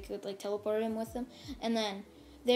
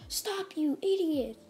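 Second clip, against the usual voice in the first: angry yell; 7 semitones higher, slower than usual. Acted. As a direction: snap at them to stop before they fight. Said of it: "Deku yells at him".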